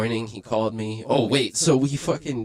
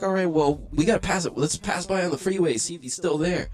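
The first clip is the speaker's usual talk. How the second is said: anxious; 8 semitones higher than usual. Retold or imitated. Anxious plan.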